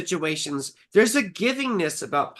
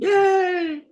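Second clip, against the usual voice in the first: excited; 13 semitones higher, 5 dB louder than usual. Real, not acted. Cheering the birth year.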